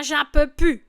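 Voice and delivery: loud sung-like exclamation of despair; fed-up cry. Shown as a demonstration. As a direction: cry out that you can't take it. Lyric repeated, desperate.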